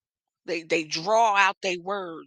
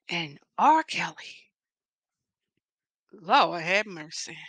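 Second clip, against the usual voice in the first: slow, halting dramatic build with long pauses; drawn-out, pitch-swooping reveal; dramatic announcement; 3 semitones higher than usual. Pretend. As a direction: announce it like gossip, word by word.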